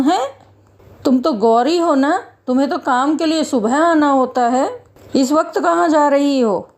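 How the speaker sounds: challenging guard with swooping questions; a hint of a suspicious gatekeeper; lightly voiced security guard. Guard stops a mother and daughter at the gate, challenging.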